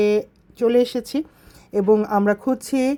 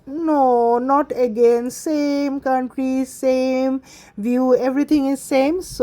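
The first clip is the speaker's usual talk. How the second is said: lightly mimicked drawn-out grumble, slightly higher; mock weary whine, slow; complaining child, imitated; 3 semitones higher, much slower than usual. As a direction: retell a child's complaint, stretching the words. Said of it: "সারামণি comment করেছিল যে".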